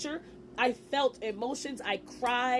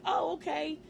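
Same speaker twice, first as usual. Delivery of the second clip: hyped up; 3 semitones higher, much slower than usual. Retold or imitated. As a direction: retell your own sudden hope, a little excited. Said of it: "I got a little bit hyped".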